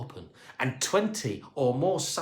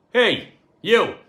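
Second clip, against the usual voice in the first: loud, higher American call; American accent; 8 semitones higher, 10 dB louder than usual. A narrator's reading. Astronaut calling the cleaner, brash American accent. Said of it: "in an American accent".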